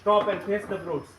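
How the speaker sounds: slow, loud, drawn-out call to stop; shouted command. Retold or imitated. Old monk shouts at the fleeing Swamiji, slow and loud. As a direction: shout it slowly across the road. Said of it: "એને રાડ પાડી".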